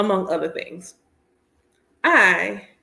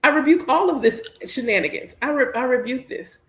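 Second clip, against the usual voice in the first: mock rebuke; 4 semitones higher than usual. Mock preaching rebuke of drivers.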